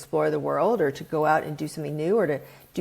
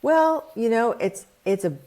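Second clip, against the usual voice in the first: higher, louder start to the ocean frog; ocean frog explaining; 6 semitones higher, 3 dB louder than usual. Retold or imitated. Ocean frog explaining the sea to the pond frog, higher and louder at first. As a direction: lightly play the patient ocean frog. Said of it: "And the ocean frog says".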